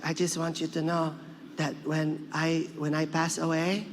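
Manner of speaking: lightly voiced grandmother, slowing down; a hint of a solemn grandmother; Lola Tinay. Grandmother tells grandson about her death, lightly acted solemnity. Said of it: "She's like".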